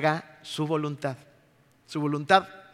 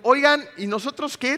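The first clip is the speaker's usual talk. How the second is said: higher, demanding challenge; 9 semitones higher, 3 dB louder than usual. Retold or imitated. Traveller confronting airline staff at the counter, demanding. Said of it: "Exigiendo el pago".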